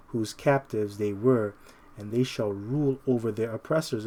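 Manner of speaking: slow, measured verse reading; scripture reading. Real, not acted. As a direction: read the verse out deliberately, phrase by phrase. Reads scripture aloud.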